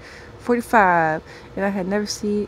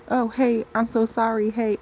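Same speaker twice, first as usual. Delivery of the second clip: high-pitched little voice; 3 semitones higher than usual. Acted. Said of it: "I hear a little high-pitched voice say".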